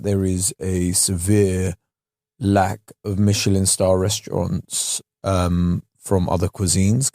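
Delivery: very slow, low posh imitation; imitating Will Poulter. Quoting Will Poulter on an interview, slow posh voice. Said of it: "in his voice, he was like".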